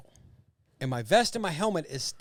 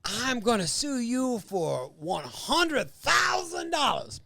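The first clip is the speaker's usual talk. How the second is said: mock threat; 7 semitones higher, much slower than usual. Mock lawsuit threat at restaurant.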